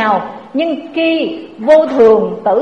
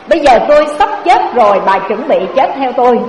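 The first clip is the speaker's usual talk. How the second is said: dying husband's demand; 3 dB louder, faster than usual. Acted. Dying husband demands wife follow.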